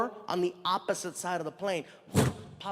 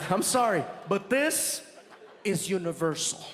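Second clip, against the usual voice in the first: a hint of a polite stranger's jab; mild businessman voice. Businessman in the VIP lounge talking about the comic, lightly voiced. Middle Eastern businessman staring at him.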